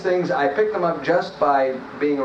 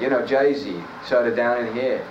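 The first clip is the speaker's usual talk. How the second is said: tag Jersey accent. Shown as a demonstration. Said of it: "famous for the Jersey accent".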